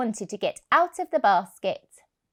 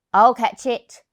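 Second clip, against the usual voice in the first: big dog; 8 dB louder than usual. Acted.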